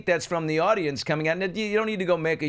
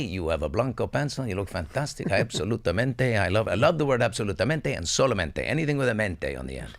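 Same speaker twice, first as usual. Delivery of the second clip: light, playful Spanish accent; 5 semitones lower than usual. Shown as a demonstration. Showing off how they often speak, Spanish accent. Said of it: "How often do I speak like this".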